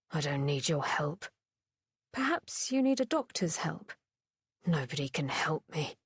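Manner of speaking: low, surly, a lightly voiced sullen man; gruff drunk Thane. A narrator's reading. Drunk man brushing off a worried visitor, sullen. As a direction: push her away, sour and curt.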